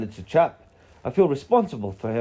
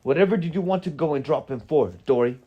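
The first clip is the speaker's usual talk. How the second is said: raised, emphatic scolding in character; heated storybook rebuke, higher and forceful; angry wizard; 4 semitones higher, 5 dB louder than usual. A narrator's reading. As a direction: tell them off as an indignant wizard. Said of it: "Gandalf answered angrily".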